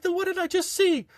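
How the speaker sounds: very high, incredulous imitation; mock accusing instructor. Instructor demanding what she just saw, mock accusing.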